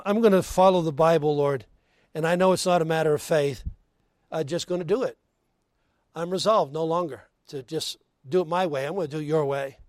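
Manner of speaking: low, resolved prayer voice; preacher modelling a humble vow; acted resolute prayer.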